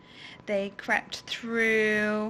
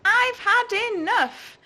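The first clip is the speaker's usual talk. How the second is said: loud, high fed-up outburst; angry; 11 semitones higher, 7 dB louder than usual. Acted. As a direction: let it burst out angrily. Emily shouts fed up.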